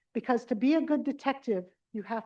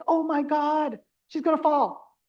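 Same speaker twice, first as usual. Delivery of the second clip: a touch louder, mock panic; alarmed caregiver; 3 semitones higher, 4 dB louder than usual. Caregiver watching her mother about to fall, mock alarm. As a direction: gasp it out like she's about to fall.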